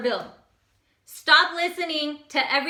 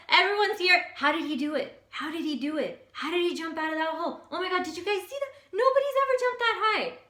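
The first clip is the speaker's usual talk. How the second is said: amazed frogs; 5 semitones higher than usual. Acted.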